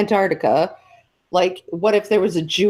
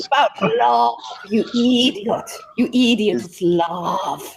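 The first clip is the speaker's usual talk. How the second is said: a lightly raised, mock-exasperated reference line; quoted movie line; 3 semitones higher than usual. Friend quotes a film line at the group, lightly mock-exasperated. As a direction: toss it off like a quote from a film, half-joking. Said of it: "That's a reference to".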